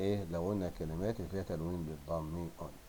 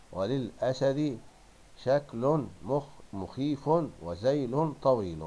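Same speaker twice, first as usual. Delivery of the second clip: loud, drawn-out word by word; deliberate, loud dictation pace; slow teacher reading; 3 semitones higher, 6 dB louder, much slower than usual. Shown as a demonstration. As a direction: read it out slowly, every ending sounded. Teacher reads sentence stressing tanween endings.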